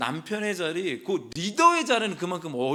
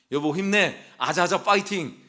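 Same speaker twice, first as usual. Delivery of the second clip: cheering on; 3 semitones higher, 4 dB louder than usual. Pretend. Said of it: "이렇게 해야".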